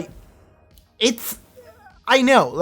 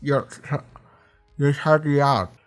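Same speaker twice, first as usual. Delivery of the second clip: a hint of a betrayed man pleading; mock hurt Chilton. Chilton accusing Will of shutting him out, mildly mock-hurt. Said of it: "he's like".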